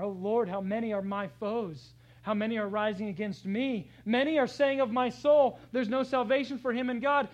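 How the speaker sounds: rising loud plea of a hunted man; anguished psalmist's cry. Acted. Preacher voicing David crying out to God, loud and anguished. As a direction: cry out to God as enemies close in.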